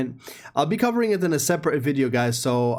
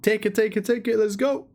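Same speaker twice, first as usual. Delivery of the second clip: higher-pitched hyped chant; eager, repeated push to grab it; excited urging; 6 semitones higher than usual. Real, not acted. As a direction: urge them on, pitched up. Urges viewers to take code.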